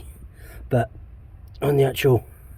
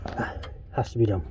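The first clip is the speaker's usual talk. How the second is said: out of breath; 3 dB quieter than usual. Real, not acted. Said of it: "it's just making me out of breath".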